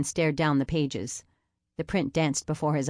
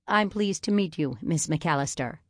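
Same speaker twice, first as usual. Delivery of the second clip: stiff. Acted. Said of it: "His voice sounded stiff".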